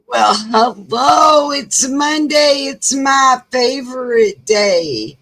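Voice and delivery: slow, loud, high exclamation; excited shout. Acted. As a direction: belt it out like a host opening the show. Big Monday show opener.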